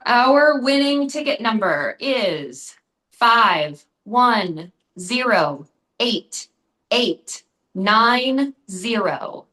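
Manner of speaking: slow, drawn-out number reading; raffle caller. Acted. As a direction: call each digit slowly for the room. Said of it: "I need to announce a winner for our raffle".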